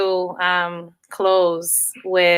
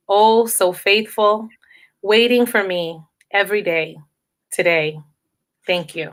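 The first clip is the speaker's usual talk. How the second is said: poem recital. Acted. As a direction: savour each line as a gift to today. Reads her own poem aloud.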